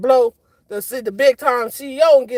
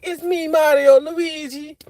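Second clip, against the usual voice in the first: lightly voiced Italian Mario accent, slow at the end; a hint of a Mario-style Italian waiter, offering pasta; understated Italian accent impression, slowing on the food list; mock Italian Mario; 3 semitones higher than usual. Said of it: "start talking like".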